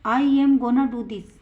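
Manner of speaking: slow, clear example for students; teacher reading it out slowly to the class; slow model sentence. Shown as a demonstration. Teacher models the sentence, slow and clear. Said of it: "तो क्या बोलेंगे?".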